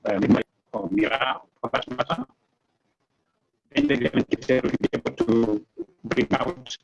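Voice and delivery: choppy connection chopping the words; call dropping out. Real, not acted. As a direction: voice breaking up on a bad line. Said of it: "you are breaking up".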